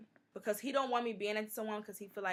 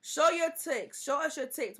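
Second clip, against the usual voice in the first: mocking comment; 7 semitones higher, 8 dB louder than usual. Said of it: "another comment was".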